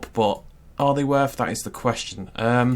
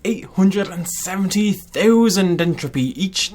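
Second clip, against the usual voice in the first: put-on louder, lightly Irish-accented boast; playful Irish accent; 6 semitones higher, 5 dB louder, slower than usual. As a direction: slip into a little Irish lilt. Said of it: "I'm doing a little accent there".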